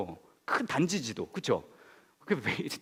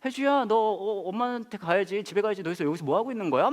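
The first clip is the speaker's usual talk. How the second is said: higher, worried auntie voice; worried woman; 4 semitones higher than usual. Retold or imitated. Neighbour woman worriedly questioning girl, higher worried voice. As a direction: fret over the child like a suspicious neighbour. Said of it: "굉장히 그 걱정스러운 얼굴을 하시면서".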